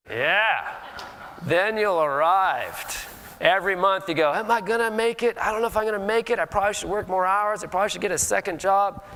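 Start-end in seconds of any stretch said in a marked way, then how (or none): 4.3-9.0 higher, worried voice counting the bills; half-acted fretting, am I gonna make it; mock anxious inner voice.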